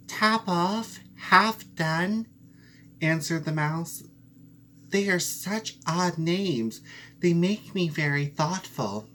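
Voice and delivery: puzzled mouse. Acted. Mouse repeats the names to the cat, puzzled. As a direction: muse over the odd names.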